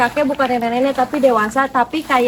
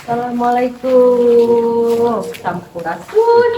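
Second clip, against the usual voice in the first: echoing; much slower than usual. Real, not acted. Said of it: "Eh, bergema banget ya".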